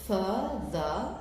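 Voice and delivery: "further" cut into two beats, fur-ther; split into syllables. Shown as a demonstration. Teacher showing how to cut the word, "further" in two beats. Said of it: "this is the way you cut it".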